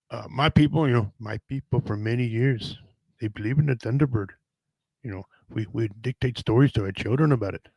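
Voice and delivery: a lightly put-on Native American elder; mock Native elder voice. To the host, joking about his people's Thunderbird legends in a mock elder voice. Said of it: "that's my only Indian voice".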